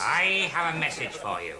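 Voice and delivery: measured séance delivery; entranced medium. Acted. Medium has message for man at séance, trance voice. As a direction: pass it on as if entranced. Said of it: "he's in a trance".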